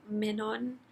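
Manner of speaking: "Manon" said MEN-on, rising at the end; trying a pronunciation. Shown as a demonstration. Reviewer unsure of the name, "Manon" as MEN-on. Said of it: "I don't know how to pronounce the name".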